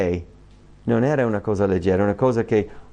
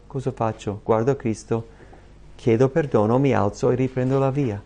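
ordinary talk

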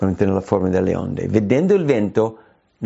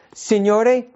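Peter's plea; 10 semitones higher than usual. Acted.

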